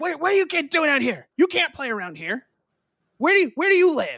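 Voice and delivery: very loud, very high-pitched yelling. Retelling how a lady scolded the kids: imitating a lady yelling. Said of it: "she would yell at us".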